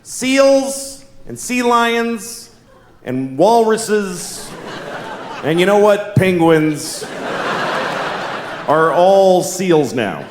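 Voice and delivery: slow, drawn-out official decree; pompous announcement. Retold or imitated. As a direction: announce it like a scientist on TV. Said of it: "scientists... say".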